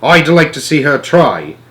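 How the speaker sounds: slow, loud defiant boast. Acted. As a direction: puff out your chest. Jenkins puffed up.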